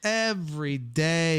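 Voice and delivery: slow, drawn-out EVERY DAY; emphatic. Real, not acted. Answering whether they watched the show, emphatic. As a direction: stretch out each word for emphasis.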